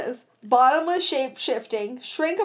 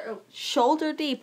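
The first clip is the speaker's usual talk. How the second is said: drawn out slowly, picturing it; slow visual telling; 2 semitones higher than usual. Shown as a demonstration. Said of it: "I was trying to do a visual thing".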